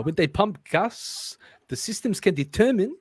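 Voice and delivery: attempted South African accent. Reader failing when reading, South African accent. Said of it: "work on my South African accent".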